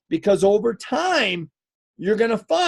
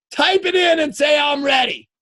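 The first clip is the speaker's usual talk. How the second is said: rallying call; 5 semitones higher than usual. Real, not acted. Rallying the online audience to respond.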